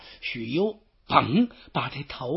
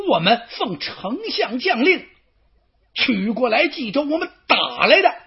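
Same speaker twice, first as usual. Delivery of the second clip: louder and higher, rising indignation; flaring anger; 5 semitones higher, 6 dB louder than usual. Acted. Xu Chu snaps back at Xu You in anger. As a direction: throw the answer back hotly. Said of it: "腾一下子这火就上来了".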